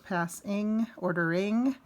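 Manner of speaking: "Passing, ordering" with the ING endings set apart; stress on ING. Shown as a demonstration. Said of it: "you're gonna treat ing".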